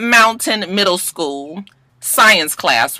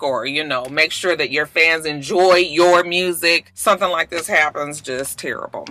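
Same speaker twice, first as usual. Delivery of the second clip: heartfelt prayers for Manchester; sincere condolences; 2 semitones lower than usual. Real, not acted. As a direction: speak gently to the victims' families. Solemn condolence message.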